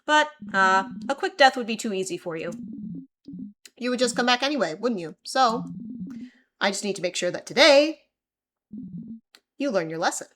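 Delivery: menacing king. Acted. The king taunting the trapped Siffrin, gloating menace. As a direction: savor every threat over him.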